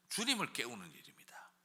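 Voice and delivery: whispered 주님을 깨우는 일입니다. Real, not acted. Preacher confiding the answer to the congregation, whispered. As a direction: breathe it out like a secret. Hushed answer to own question.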